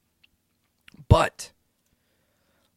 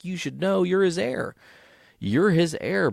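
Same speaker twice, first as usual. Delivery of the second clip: Jeremiah voice; 10 semitones higher than usual. Retold or imitated.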